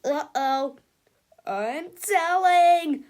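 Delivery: slow, high, loud whine; whiny tattletale. Acted. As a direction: drag out the threat like a spoiled kid. Melvin threatens tattling.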